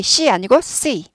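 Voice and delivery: 'C 아니고 C' said slowly, first C flat Korean 씨, then English C; slow contrast demo. Shown as a demonstration. Teacher slowly contrasting 'C 아니고 C' for students. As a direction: spell out both sounds of 'C 아니고 C' slowly.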